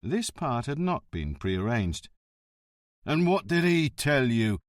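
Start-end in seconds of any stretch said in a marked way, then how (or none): 3.1-4.6 defiant. Acted. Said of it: "Prestia asked, almost defiantly".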